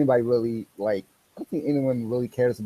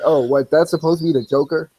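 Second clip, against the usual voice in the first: louder, surprised imitation of his father; mimicking dad; 4 semitones higher, 6 dB louder than usual. Son imitating his father's surprise at the trailer. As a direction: blurt it out with mock surprise. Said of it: "He's like".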